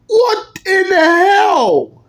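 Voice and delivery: high, slow shocked shout; shocked cry. Acted. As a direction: drag it out in disbelief. Parent shocked at visitor.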